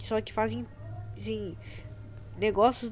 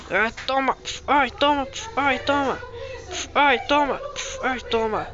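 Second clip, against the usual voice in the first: fight shouts; 4 semitones higher, 4 dB louder than usual. Acted. Fight blows exchanged.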